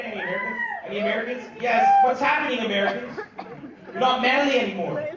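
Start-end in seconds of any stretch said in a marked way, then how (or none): 0.0-0.6 very high call; high call to the crowd. Real, not acted. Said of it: "Do we have any Americans".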